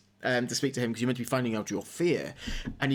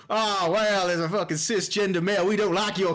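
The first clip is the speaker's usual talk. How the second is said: rednecks; 4 semitones higher than usual. Retold or imitated. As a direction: jeer like a hostile country yokel. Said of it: "a bunch of rednecks pull up and they go".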